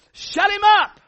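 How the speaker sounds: high, loud shout of Shut him up; shouted command. Acted. Pastor commanding congregation to silence the giant, loud shout. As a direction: hurl the command like a war cry.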